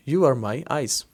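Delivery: very slow, word by word; slow translation. Shown as a demonstration. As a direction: dictate it slowly to students. (बहुत धीरे धीरे बोलना)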